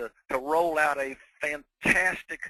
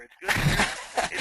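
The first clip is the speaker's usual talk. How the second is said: mock Southern accent; 5 semitones higher, 6 dB louder, slower than usual. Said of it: "good to have a change of accent".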